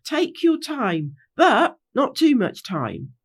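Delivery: slow, measured direction to the group; leader's instruction. Acted. Rainbow instructing the gang at the gate, slow and measured. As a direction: spell it out slowly, with a caveat. Rainbow's original, then repeated by Pinky Bow.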